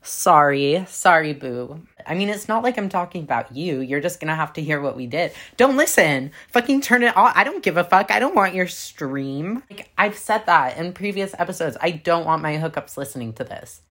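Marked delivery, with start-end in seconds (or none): 0.0-1.8 sassy dismissive. Retold or imitated. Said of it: "And to that, I say". 5.6-9.6 loud, brash tell-off. Real, not acted. Telling hookups off loudly.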